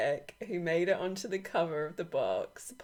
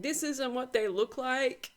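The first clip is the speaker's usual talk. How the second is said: higher-pitched imitation of objectors; mock complaint; 6 semitones higher than usual. Creator quoting commenters about her cards, mock complaint.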